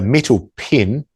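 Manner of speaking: Kiwi accent, "pen" said like "pin"; natural Kiwi vowel in "pen"; broad kiwi accent. Real, not acted. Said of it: "my Kiwi accent is spelled P E N".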